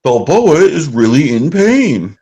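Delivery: slow, lightly voiced sports announcer; mock announcer call, drawn out. Retelling the match announcer to his co-host, slow announcer voice. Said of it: "one of the announcers is like".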